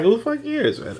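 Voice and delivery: high, laughing who cares; laughing exasperation. Real, not acted. Laughing exasperation at dull text.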